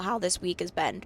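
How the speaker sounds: sick voice cracking on the words. Real, not acted. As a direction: voice breaks from a cold. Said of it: "Did you just hear that voice crack?".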